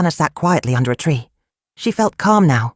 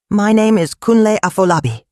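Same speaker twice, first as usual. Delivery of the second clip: announced clearly; 5 semitones higher than usual. A narrator's reading. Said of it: "he announced clearly".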